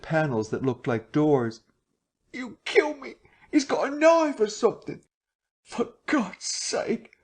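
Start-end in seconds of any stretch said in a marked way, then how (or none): 2.3-7.1 high, frantic cries; panicked terror. A narrator's reading. Marvel diving at doors, crying in panic. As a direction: beg in blind panic.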